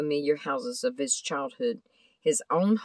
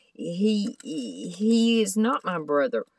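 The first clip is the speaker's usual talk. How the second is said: higher, stammering in alarm; stammering shock; 6 semitones higher than usual. A narrator's reading. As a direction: stumble over he, he in fright. Thomas gasps at the changed man.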